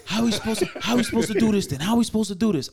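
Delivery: high, loud laughing challenge; challenging yell. Retold or imitated. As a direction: call him out, half laughing.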